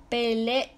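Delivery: "Pelé" as pe-lé, then another e; separated E E. Shown as a demonstration. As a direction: detach a second e at the end of "Pelé". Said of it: "va separada E E".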